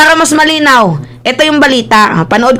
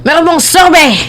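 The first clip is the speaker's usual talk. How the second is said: put-on teasing Filipino-accented English, higher pitched; Mike Abe; 5 semitones higher than usual. Vlogger teasing Mike Abe, mock Filipino accent. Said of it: "Yan yung pang-asar ni, ano, ni Banat Bay kay Mike Abe".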